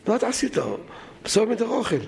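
retold shout. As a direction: imitate people calling out in protest, pitched high. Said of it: "צעקו לו".

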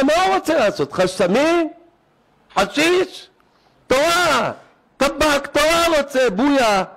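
high-pitched mock wail of protest; imitated crying outcry. Rabbi telling everyone the boy is denied Torah, imitated high wail. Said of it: "התחיל לבכות".

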